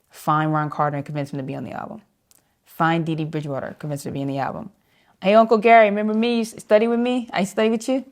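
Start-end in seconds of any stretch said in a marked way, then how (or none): 5.2-8.1 higher, louder mock cold call; eager, high-pitched reintroduction. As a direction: act out buttering up an old acquaintance. Acting out pleading calls to guests.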